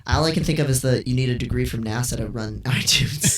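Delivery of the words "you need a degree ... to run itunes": breaking into laughter; laughing. Real, not acted. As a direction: laugh through the punchline. Quoting a tweet, laughing.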